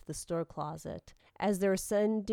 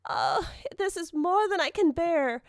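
high, loud wail of suffering; agonized cry; 10 semitones higher, 5 dB louder than usual. Acted. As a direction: act a girl at the end of her endurance. Tortured girl's dying cry.

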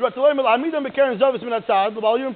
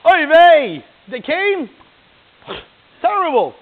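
loud, high Yiddish mock alarm; hammed-up Yiddish "oy vey" panic; yiddish accent; 8 semitones higher, 11 dB louder, much slower than usual. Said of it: "she claps, she goes".

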